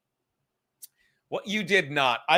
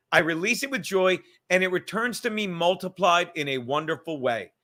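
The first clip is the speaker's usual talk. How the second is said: a little slower, measured read-aloud. Shown as a demonstration. Reading the money affirmation out for speech to text, slowly. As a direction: spell it out for someone taking dictation. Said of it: "I'll say it again slowly".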